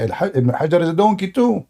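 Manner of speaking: mock Muslim caller, dismissive; a lightly voiced scoffing opponent; mocking imitation. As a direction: parody the caller brushing off the scholar. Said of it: "he will say".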